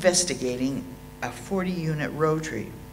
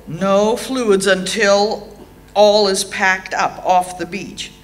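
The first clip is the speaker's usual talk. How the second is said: mock stern rule; 6 dB louder, slower than usual. Quoting the crew's drinking rule.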